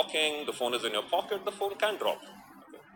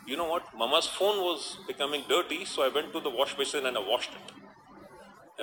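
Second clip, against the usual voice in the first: lightly voiced innocent child, higher at the start; a hint of a little girl explaining innocently; innocent little daughter; 3 semitones higher than usual. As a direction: retell the small daughter's innocent confession, lightly imitated. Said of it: "daughter very innocently said".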